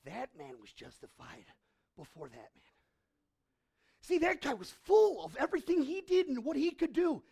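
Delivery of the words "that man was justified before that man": soft and low, a quiet verdict; preacher quoting Jesus softly, lower and softer; hushed Jesus. Retold or imitated. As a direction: drop to a low hush for the truth. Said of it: "And Jesus says".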